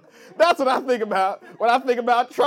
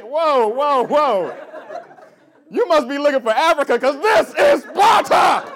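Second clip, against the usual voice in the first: mock movie warrior; 5 semitones higher, 6 dB louder than usual. Black soldier in the movie stopping someone, parody battle shout. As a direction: call out like a soldier blocking the way. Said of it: "Black dude showed up in three hundred and was like".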